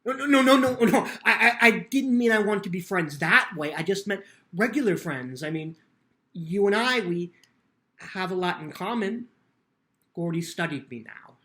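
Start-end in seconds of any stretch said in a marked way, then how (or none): 0.0-8.3 much louder, higher nervous laugh; embarrassed laughing denial. Acted. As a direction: scramble to take it back.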